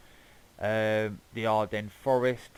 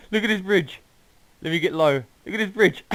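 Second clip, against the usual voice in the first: high, loud, giggly disbelief; laughing; 8 semitones higher, 8 dB louder, faster than usual. Real, not acted. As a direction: talk through the laughter. Laughing at the silly bridge.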